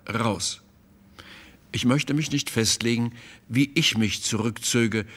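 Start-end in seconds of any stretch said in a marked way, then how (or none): 0.1-0.6 a softer second "Raus", falling; repeated, quiet. Acted. The painter repeating the order to Malzahn, quieter. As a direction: say it again, quieter and final. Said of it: "noch einmal".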